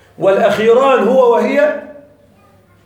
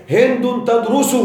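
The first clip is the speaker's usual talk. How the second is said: slow example reading; slower than usual. Shown as a demonstration. Teacher reads grammar example.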